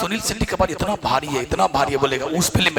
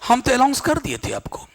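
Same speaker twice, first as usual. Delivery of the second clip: imitating educated speakers; 6 semitones higher than usual. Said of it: "पढ़ा लिखा लोग ही बोलेगा".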